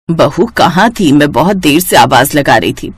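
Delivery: a hint of a patient old mother-in-law. Narrator voices the mother-in-law. (धीमी, नरम बुज़ुर्ग सास की आवाज़)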